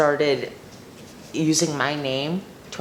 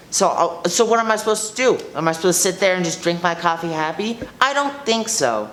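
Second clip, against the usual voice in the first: indignant rant. Acted. Karen escalates her rant.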